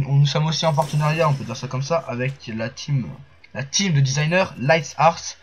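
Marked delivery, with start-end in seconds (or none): 3.5-5.4 English accent on the name Lights Arts, slow and a little louder. Real, not acted. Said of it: "excusez-moi mon accent anglais". (accent anglais sur Lights Arts)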